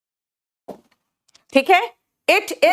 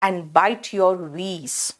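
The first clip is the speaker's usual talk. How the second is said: slow rhyme; 4 semitones lower, 3 dB quieter, much slower than usual. Shown as a demonstration. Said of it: "कहते हैं ना".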